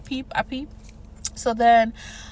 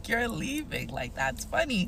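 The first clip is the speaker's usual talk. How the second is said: amused stranger; 8 dB quieter, slower than usual. Retold or imitated. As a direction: mutter it like a bystander enjoying the show. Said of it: "he low-key starts laughing 'cause he's like".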